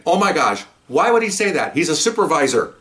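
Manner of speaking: high-pitched appalled disbelief; retold shock. Officer overhearing his supervisor, high retold shock. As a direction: pitch it up, aghast.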